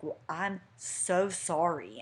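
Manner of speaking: slow, drawn-out mock apology; sarcastic apology. Fiance in premarital spat, sarcastic apology. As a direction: drag it out with no sincerity. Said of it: "That was sarcasm".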